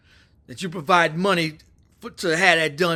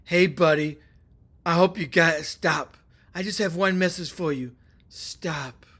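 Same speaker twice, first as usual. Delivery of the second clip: Biden; 2 semitones lower than usual. Retold or imitated. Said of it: "Biden gave a message".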